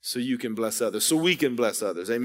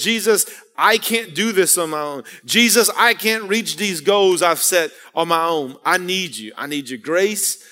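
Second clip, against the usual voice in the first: raised, pleading preacher prayer, slowing on the first lines; fervent prayer; 2 semitones higher than usual. Acted. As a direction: cry out to Jesus for help, humbly. Preacher voices a humble prayer.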